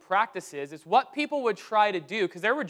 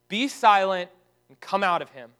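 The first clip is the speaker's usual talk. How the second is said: firm command, louder on the first words; harsh rebuke; 5 dB louder than usual. Retold or imitated. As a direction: quote a stern rebuke. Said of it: "Jesus responds harshly".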